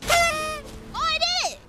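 high, pleased squeal; delighted surprise. Real, not acted. Player succeeding at a task, high delighted surprise. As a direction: exclaim in happy triumph.

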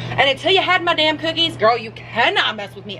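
sassy and high, daring them; playful sassy challenge. Real, not acted. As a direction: throw attitude at the viewers. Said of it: "I am so sassy today".

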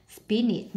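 "spinach" stressed on SPIN, the first syllable. Shown as a demonstration. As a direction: hit SPIN in "spinach" and let the ending go. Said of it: "nhấn âm một".

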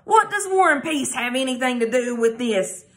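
annoyed. Acted. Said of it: "clearly annoyed".

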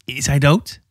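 hesitant, hushed question with a long pause; understated whispering girl; hoarse whisper. A narrator's reading. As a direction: falter on the first word, lightly hushed. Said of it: "fluisterde ze hees".

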